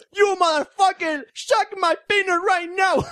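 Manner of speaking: high, slow hammed-up English insult; high mock speech; mock acceptance speech. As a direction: deliver a crude fake award speech. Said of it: "un discurso".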